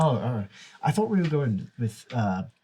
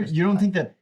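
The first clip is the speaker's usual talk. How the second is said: surprised; 6 semitones higher, faster than usual. Acted. Juniper taken aback by Tavenna.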